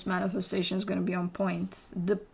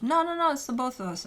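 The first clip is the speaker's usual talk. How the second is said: insisting; 4 semitones higher, faster than usual. Acted. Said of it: "presenting it as if".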